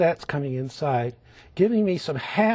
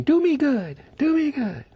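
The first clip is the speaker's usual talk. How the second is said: high, louder pleading voice for the painted bird; eagle speaking; 11 semitones higher, 4 dB louder than usual. Pretend. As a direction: let the bird beg to be painted. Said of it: "He's saying".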